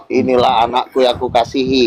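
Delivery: low solemn male voice; male God voice. Retold or imitated. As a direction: voice God as a man. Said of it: "Kalau cowok". (suara Tuhan laki-laki yang rendah)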